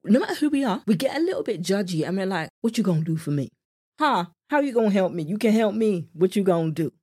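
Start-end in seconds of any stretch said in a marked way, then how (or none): 2.6-6.9 sassy mock American accent, challenging; put-on US accent. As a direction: put on a judgy American accent, punchy questions. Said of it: "That's the only accent I know when it comes to the U S".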